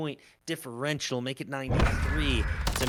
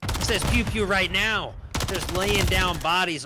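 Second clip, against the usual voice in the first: higher, louder excited shout; hyped call; 4 semitones higher, 4 dB louder than usual. Real, not acted. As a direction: hype up the kill. Repeats the player's name, hyped.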